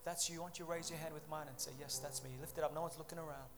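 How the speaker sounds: hushed, earnest appeal to the congregation; altar call. Real, not acted. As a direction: gently invite them to respond. Leads altar call over music.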